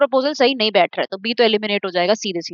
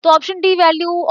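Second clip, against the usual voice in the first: Option D value lifted higher, D stressed; raised questioning repeat; 6 semitones higher than usual. Shown as a demonstration. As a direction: pick up the option again, voice raised, weighing it. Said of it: "teacher repeats the option to weigh it". (Option D value ऊँची आवाज़ में, D पर ज़ोर)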